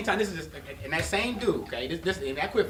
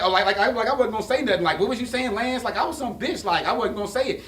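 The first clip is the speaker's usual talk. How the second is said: louder, mock-innocent girlfriend voice; imitating girlfriend; 5 semitones higher, 5 dB louder than usual. To Lance in front of her man, mock-innocent. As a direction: play her fake innocence.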